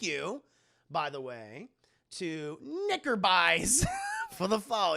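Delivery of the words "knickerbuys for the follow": higher announcer-like holler; hyped shout-out. Real, not acted. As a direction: call out a new follower's name with gusto. Shout-out to a new follower.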